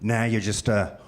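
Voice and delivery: slow, creepy delivery. Pretend. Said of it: "I can say it in a creepy voice".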